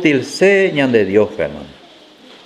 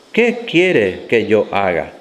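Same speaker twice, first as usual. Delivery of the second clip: slow, hushed, lower fearful plea; trembling and fearful; 6 semitones lower, slower than usual. Acted. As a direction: ask it as a frightened man on the ground. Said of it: "temblando y temeroso".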